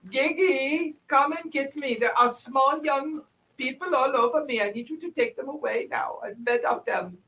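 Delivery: high-pitched, put-on comic character voice; Nandor voice. Player as Nandor begging Gigi to take the small people away, high character voice. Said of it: "I'll do my Nandor voice".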